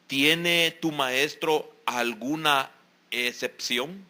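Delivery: slow, reproachful challenge; reproachful question. Retold or imitated. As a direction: ask it slowly, with reproach. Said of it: "con fondo de reproche". (pregunta lenta y llena de reproche)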